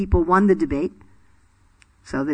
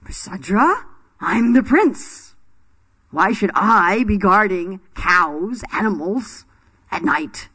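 indignant prince; slower than usual. Retold or imitated. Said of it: "he didn't say to his guru".

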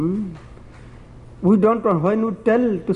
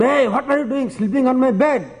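higher-pitched indignant outcry, mildly acted; mock scream; 5 semitones higher than usual. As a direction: imitate an outraged master catching someone out. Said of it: "Then he screamed".

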